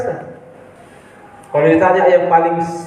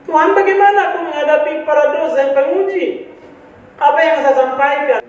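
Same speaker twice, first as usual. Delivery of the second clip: retold tearful prayer; 7 semitones higher than usual. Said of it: "sepanjang jalan saya nangis".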